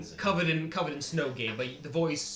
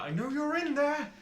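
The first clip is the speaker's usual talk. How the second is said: raised, angry call at the gate; furious yell; 6 dB louder than usual. Acted. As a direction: yell it, furious but held back. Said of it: "he seems furious".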